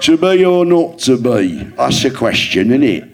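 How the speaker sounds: mock regional-accent Hamlet; regional accent Shakespeare. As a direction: toss off Hamlet like a bloke down the pub. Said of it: "Shakespeare in regional accents".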